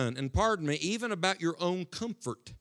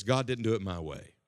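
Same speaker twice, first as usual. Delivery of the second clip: pouting Jonah; 8 semitones lower, 4 dB quieter than usual. Retold or imitated. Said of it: "starts pouting".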